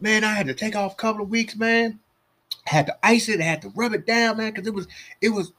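mock rueful friend. Friend retelling his injury.

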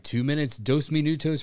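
arena announcer. Retold or imitated. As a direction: lightly imitate the game announcer. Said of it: "the announcer would always".

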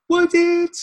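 high, loud incredulous jab; sarcastic question. Acted. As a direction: challenge the book's claim mockingly. Mocking question at the text.

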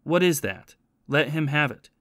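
a mild, understated threat with the pitch up on the question; lightly voiced stern grandfather accusing his grandson; threatening. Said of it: "said threateningly".

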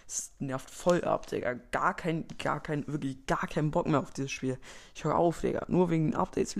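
grumbling, fed-up gamer; annoyed. Acted. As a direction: complain about every update. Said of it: "komplett genervt aufs Update reagiert".

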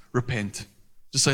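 ordinary talk, nothing marked

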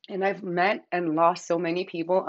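words around a sip of water; while sipping a drink. Real, not acted. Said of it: "I'm drinking water 'cause I'm parched".

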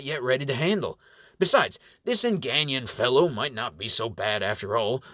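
gentle probing elder voice; kindly old reverend. Acted. Appleseed counsels.

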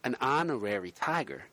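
put-on light New York accent. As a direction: pitch it like a New Yorker. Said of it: "you don't have to speak in a New York accent".

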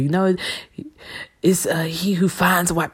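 hushed, teasing scripture quote; mock pious whisper. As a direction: whisper it like a knowing aside.

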